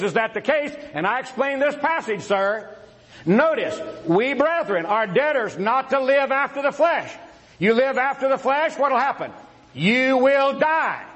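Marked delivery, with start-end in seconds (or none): 4.1-11.0 raised, emphatic pulpit delivery; forceful preaching. Real, not acted. Preacher warning the folks about living after the flesh, forceful. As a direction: drive the warning home, drawing out the last words.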